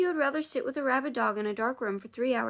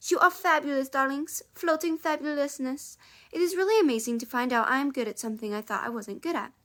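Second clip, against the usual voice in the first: put-on French accent. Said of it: "She's just gonna be French now".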